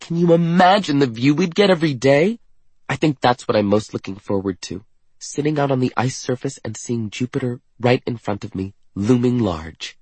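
high, eager wonder; excited raving. A narrator's reading. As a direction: gush about the view. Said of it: "Katerina raves".

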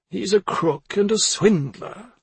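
high, slow, insistent accusation; brand him guilty, aggravated; sharper tone. A narrator's reading. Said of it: "she took on a sharper tone".

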